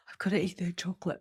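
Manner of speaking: urgent unvoiced-style whisper to yourself; whispered craving. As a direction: whisper it like a guilty secret. Acts out a secret craving.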